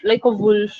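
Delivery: "like a" light, "wolf" drawn out; slow demo leaning on the final "wolf"; stress on WOLF. Shown as a demonstration. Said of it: "आ पे stress नहीं है". ("wolf" पर ज़ोर, "like a" हल्का)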